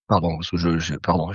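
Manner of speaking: throat catching between words; speaking through a cough. Real, not acted. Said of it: "je tousse". (voix enrouée par la toux)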